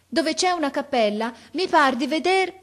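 high-pitched calling lookout; shouted report. A narrator's reading. Boy reports chapel to officer, shouting. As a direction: call it out from up high. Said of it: "gridò il ragazzo".

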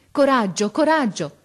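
loud, rising in pitch on repeat; urging courage. A narrator's reading. Officer to dying boy, urgent encouragement. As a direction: urge someone to hold on. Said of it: "gli diceva coraggio".

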